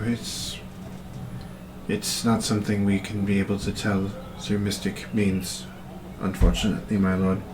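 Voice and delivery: soft, hushed report to a lord; low-voiced. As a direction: say it low, with halting pauses. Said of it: "this kind of low in voice".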